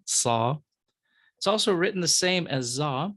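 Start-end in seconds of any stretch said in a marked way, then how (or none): 0.1-0.6 "Sa" with a Semitic emphatic S. Shown as a demonstration. Teacher asking students to notice the difference, emphatic "Sa". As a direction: stress the difference: emphatic S in "Sa", not plain S. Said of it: "emphatic consonant sounds a little different".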